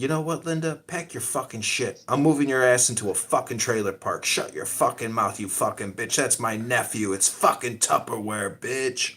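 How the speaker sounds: retelling a man cursing out his wife; angry rant. Retold or imitated. Uncle retold cursing out Linda over Tupperware, angry.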